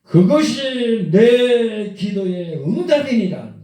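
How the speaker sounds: high, loud, slow divine proclamation; thunderous voice of God. Retold or imitated. God answering a desperate man's prayer, thunderous and slow. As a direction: proclaim it like thunder from heaven, stretching the words. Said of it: "천천벽력 같은 소리가 들려오는 거예요".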